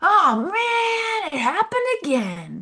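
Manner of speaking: over-the-top cartoon voice, very high, very slow, swooping. Showing how a kid could sound to others, in an over-the-top cartoon character voice. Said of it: "Cartoon character voice".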